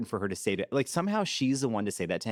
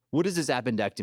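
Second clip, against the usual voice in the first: mock angry; 4 semitones higher, faster than usual. Retelling an angry colleague confronting staff over the error, mock angry. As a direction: imitate someone coming down annoyed. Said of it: "someone angry comes down".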